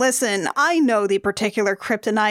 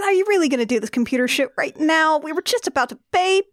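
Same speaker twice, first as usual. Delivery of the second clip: put-on higher-pitched whiny boyfriend protest; exasperated boyfriend; 4 semitones higher than usual. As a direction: plead with your babe in mock exasperation. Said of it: "Yeah, and he said".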